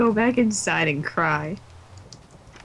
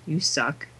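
mocking pig giggle; 2 semitones lower than usual. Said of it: "You're gonna be out there".

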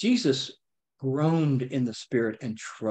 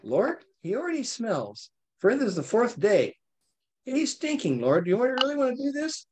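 higher, pleading sister's voice; pleading Martha; 9 semitones higher than usual. Retold or imitated. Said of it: "Martha ... said".

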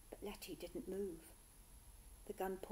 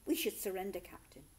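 urgent; 5 dB louder than usual. Acted. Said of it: "the boatswain said urgently".

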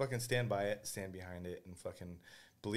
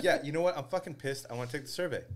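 higher and louder, a hammed-up irate complaint; mock angry customer; 6 semitones higher, 5 dB louder, faster than usual. Caller to bank rep, mock angry and louder. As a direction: play the fed-up caller, half joking. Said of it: "I'm like".

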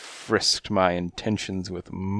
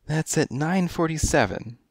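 high, coy feline voice; high kittenish client voice; coy cat lady; 8 semitones higher than usual. A narrator's reading. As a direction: purr it like a kittenish femme fatale.

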